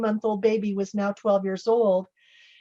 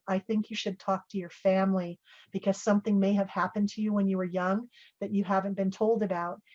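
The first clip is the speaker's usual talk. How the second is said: gently retold calm advice, slightly softer; calm reassurance; 4 dB quieter than usual. Researcher taking her hands to advise her, calmly. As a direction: say it calmly and gently, easing down at the end. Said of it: "took my hands really calmly".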